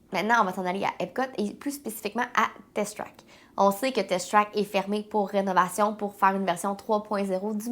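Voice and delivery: stuffy, congested head-cold voice; blocked nose. Real, not acted. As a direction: talk through a blocked nose. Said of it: "je parle beaucoup du nez aujourd'hui".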